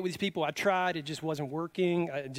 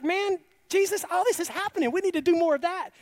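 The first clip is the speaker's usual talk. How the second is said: excited disciple; 12 semitones higher, 5 dB louder than usual. Retold or imitated.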